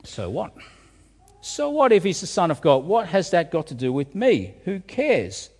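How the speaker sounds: a shrugging skeptic pushing back; sceptical challenge. Retold or imitated. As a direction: scoff like a doubting listener. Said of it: "But now we might ask".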